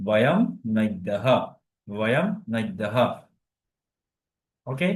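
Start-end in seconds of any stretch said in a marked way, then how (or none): 0.1-2.9 "বয়ম নদ্যহ" slowly, word by word; slow model pronunciation. Shown as a demonstration. Teacher modelling the plural for students, slow "বয়ম নদ্যহ". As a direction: draw out "বয়ম নদ্যহ", sounding the final h. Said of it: "তখন বলতে হবে".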